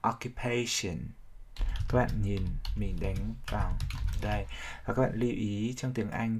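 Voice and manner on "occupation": "Occupation" with main stress on PA, lighter stress on O; o-ccu-PA-tion, secondary beat on the O of "Occupation". Shown as a demonstration. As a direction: lean lightly on O, firmly on PA in "Occupation". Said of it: "nhấn hơi phụ vào âm đầu tiên".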